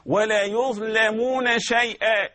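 slow, careful reading of يظلمون; drawn-out recitation; correct recitation. Shown as a demonstration. Teacher models the correct reading, slow. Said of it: "هكذا النطق الصحيح".

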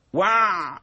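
وع with a bleating sound. Shown as a demonstration. Teacher imitates the bleating mistake. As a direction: demonstrate the wrong bleat on وع. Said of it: "هكذا صوت البعبعة".

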